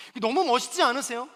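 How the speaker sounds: ordinary talk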